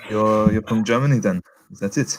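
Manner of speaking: put-on English spoken with a German accent. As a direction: play a German speaker. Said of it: "you do the accent of that".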